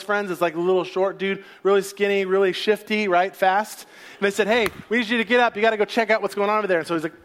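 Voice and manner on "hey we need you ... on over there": urgent orders. Acted. Soldiers send the scout.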